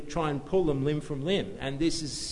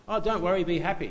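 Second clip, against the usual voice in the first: high, louder, breezy brush-off; mock carefree; 7 semitones higher, 4 dB louder, faster than usual. Preacher mimicking people who say ignore everything, high-pitched and carefree. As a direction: imitate someone airily waving troubles away. Voicing carefree advice he rejects.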